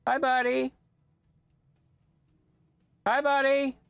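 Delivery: high-pitched greeting to a dog; squeaky voice for a beloved pet; doting pet talk. Real, not acted. Calling to the dog on camera.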